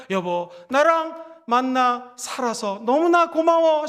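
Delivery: slow, tender thanks to a spouse; a husband gently thanking his wife; tender model line. Shown as a demonstration. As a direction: say it slowly and gently, as a model for the congregation. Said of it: "남편에게 한번 따라해볼까요?".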